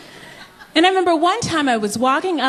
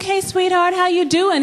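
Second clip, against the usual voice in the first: sweet greeting; 5 semitones higher than usual. Retold or imitated. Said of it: "I was like".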